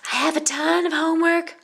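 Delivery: high, loud holler. A narrator's reading. Violet coming home announcing her homework, loud holler. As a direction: shout it proudly through the house. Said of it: "hollered Violet when she got home".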